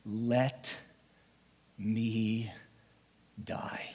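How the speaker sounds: slow, broken words falling to a whisper; whispered plea. Acted. Desperate man begging God to let him die, whispering. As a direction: let each word drop away to a whisper. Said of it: "I said these words".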